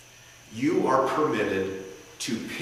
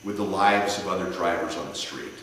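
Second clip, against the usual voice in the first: passionate closing argument. Shown as a demonstration. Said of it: "that's an example of an analogy".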